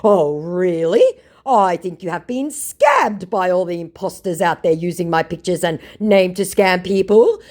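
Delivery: high, loud mock scammer. Mocking scammer accusing her, high and loud. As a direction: play him smugly turning it around. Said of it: "To which my scammer said".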